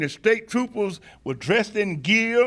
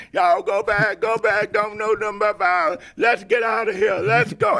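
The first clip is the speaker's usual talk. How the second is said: retold tearful plea, mildly raised voice; Andrew Young/public; 3 semitones higher than usual. Activist imitating a colleague behind him fleeing tear gas, urgent retold cry. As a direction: imitate someone urging everyone to retreat, without real sobs. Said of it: "Andrew Young was walking behind us crying".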